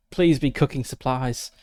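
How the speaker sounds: insistent plea. Real, not acted. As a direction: beg the dice harder, leaning on PLEASE. Repeats plea before the roll.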